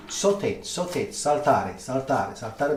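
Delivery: slow, drawn-out "saute, saltare", stress on TA; slow chef's lesson on "saltare", sal-TA-re; slow teaching repeat. Shown as a demonstration. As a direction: spell it out slowly for the viewers. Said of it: "That's why they say saute".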